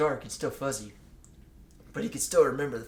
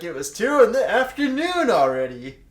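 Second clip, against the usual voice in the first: laughing; 5 semitones higher, 19 dB louder, slower than usual. Real, not acted. Loud laughing read.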